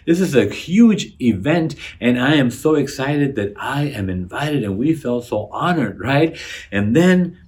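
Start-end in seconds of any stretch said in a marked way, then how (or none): 0.0-4.6 higher, eager mock excitement; excited guests. Invited guests react to the invitation, mildly excited. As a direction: gush like a thrilled invitee. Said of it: "they were excited, saying".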